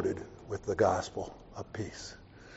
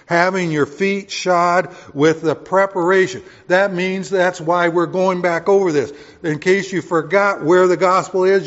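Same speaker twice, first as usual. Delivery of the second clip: louder, higher preaching; 3 semitones higher, 4 dB louder than usual. Real, not acted. Pastor warning the church, loud. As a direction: raise it up for the crowd.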